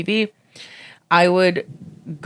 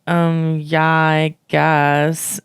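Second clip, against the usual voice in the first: Mary; much slower than usual. Retold or imitated. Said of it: "your Mary impression".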